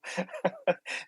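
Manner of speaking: short soft real laugh. Real, not acted. Host laughing at the guest's odd introduction. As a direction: let a quiet chuckle slip out. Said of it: "I can't stop laughing now".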